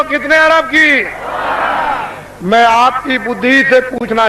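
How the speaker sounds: booming orator addressing a crowd; booming political rally speech. Acted. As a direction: proclaim it to a packed rally.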